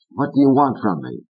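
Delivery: high, mocking puppet voice; Fats sneering. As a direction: taunt with a cruel picture. Fats mocks Corky's future.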